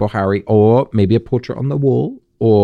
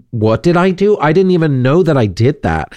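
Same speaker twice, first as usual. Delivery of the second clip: voicing Harry's confusion; 6 semitones higher than usual. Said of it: "I'm like".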